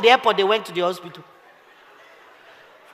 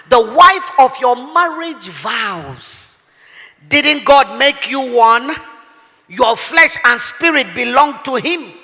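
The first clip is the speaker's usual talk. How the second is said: slow solemn reading of scripture; slower than usual. Acted. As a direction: read the verse slowly and weightily. Preacher reading scripture slowly.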